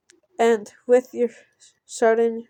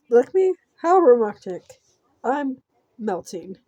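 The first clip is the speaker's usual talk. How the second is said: mock swooning; 2 semitones higher, 6 dB louder than usual. Player mocking being licked by the villain, mock swooning. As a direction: play up the sarcastic romance. Mocking a creepy story choice.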